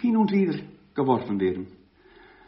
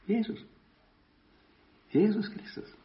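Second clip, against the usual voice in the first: rising emphatic jesus; 7 semitones higher, 6 dB quieter than usual. Acted. Prediger wiederholt Namen steigernd.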